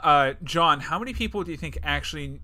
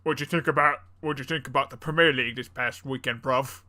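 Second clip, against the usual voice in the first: mock British bloke asking about football; pub-talk British accent, ending on bruv; 3 dB louder than usual. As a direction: put on a hammed-up London accent. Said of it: "the U K is Brad".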